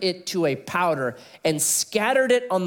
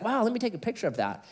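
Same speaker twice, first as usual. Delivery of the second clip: amazed tourist; 6 semitones higher, 5 dB quieter, faster than usual. Retold or imitated. Friend Billy voiced in story.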